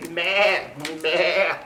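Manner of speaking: lightly voiced bleat; sheep bleat. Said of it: "bleated Sheep".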